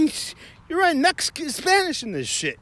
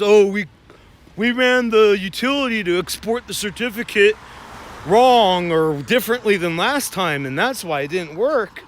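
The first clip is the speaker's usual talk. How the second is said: louder, sheepish mock excuse; mock tech excuse; 4 dB louder than usual. Mocking the techs who botched the certificate export, louder. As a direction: parody the techs owning up.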